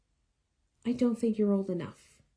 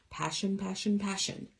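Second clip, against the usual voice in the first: quieter on each repeat; fading repetition; 7 dB quieter than usual. Acted. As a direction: let each passion fade away. Urging follow your passion, repeating.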